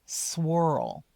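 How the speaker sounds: swirl, the mistaken version; wrong word. Shown as a demonstration. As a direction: say swirl without the K. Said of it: "it might sound like".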